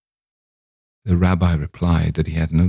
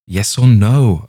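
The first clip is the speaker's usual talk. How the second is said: loud, drawn-out, higher demand; wild cry; 4 semitones higher, 7 dB louder, slower than usual. A narrator's reading. Young man demanding the rabbi's answer, wild cry. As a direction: cry it out wildly, stretching each word. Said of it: "I cried wildly".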